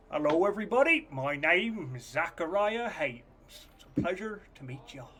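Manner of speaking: put-on a soft country accent, easy and polite. Humble contestant greets the crowd in a soft country accent. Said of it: "in a sort of soft country accent".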